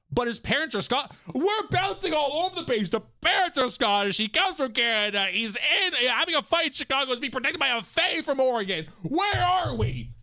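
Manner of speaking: high-pitched exasperated rant; mock exasperation. Real, not acted. Streamer baffled by scattered story locations, exasperated. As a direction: rattle it off in rising disbelief. Exasperated at the jumbled character backstory.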